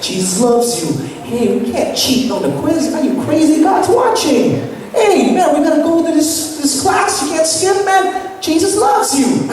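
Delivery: put-on eager kid preacher. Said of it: "telling all my classmates about Jesus".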